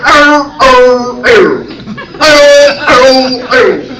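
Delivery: loud, barked drill grunts; unintelligible Marine drill call. Shown as a demonstration. Comic mocking the Marine drill call, barked. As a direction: bark like a Marine drill instructor. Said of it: "you do not know what they're saying".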